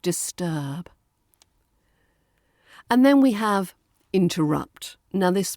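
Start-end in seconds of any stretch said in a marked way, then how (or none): 0.0-0.9 "Disturb" with a long, round, smooth er. Shown as a demonstration. Teacher models "Disturb" for learners, round smooth vowel. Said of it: "Keep it round and smooth".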